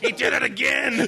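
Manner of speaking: mock annoyance. Mock complaint.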